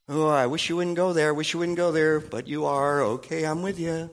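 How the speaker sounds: gently resigned, still loyal; Holy Spirit voice. Retold or imitated. Holy Spirit speaking softly to a wayward believer. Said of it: "This is the Holy Spirit".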